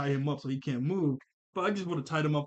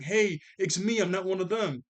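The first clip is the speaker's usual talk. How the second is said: loud, high pleading through the door; pleading shout; 5 semitones higher, 4 dB louder than usual. Retold or imitated. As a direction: beg to be let in. Sissy knocks, pleading at the door.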